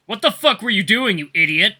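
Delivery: loud, high furious shouting; furious yell. Acted. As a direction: tear into him at full volume. Wolf pins her, yelling.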